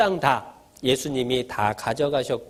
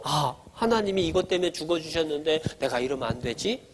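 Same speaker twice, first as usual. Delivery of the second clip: softer inner voice after a small "ah"; checking oneself; 5 dB quieter than usual. Acted. Preacher voicing a child about to snap at mom, hushed self-check. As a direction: stop yourself with a quiet realisation. Same acted second thought, repeated.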